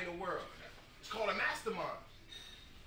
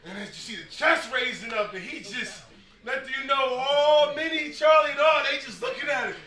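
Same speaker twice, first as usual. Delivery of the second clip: rising excitement; 5 semitones higher, 14 dB louder than usual. Real, not acted. Building excitement retelling breakthrough.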